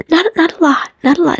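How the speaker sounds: high, hesitant repeated words. Retold or imitated. Girl answering him in the morning mist, high and shy. Retelling her line.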